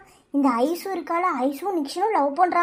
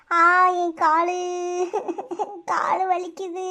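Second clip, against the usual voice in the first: drawn-out whimpering groan; pained moaning; slower than usual. Acted. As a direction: moan over an injured leg.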